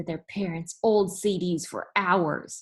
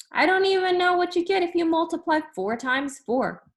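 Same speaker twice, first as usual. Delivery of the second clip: much higher, louder, ditzy teacher voice; silly teacher voice; 11 semitones higher, 4 dB louder than usual. Acted. Teacher to the class, claiming she can't multiply, high and ditzy. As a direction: play dumb with a high, sing-song teacher voice.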